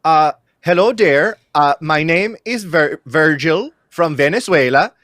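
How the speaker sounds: put-on a light Venezuelan accent. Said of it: "my best Venezuelan accent".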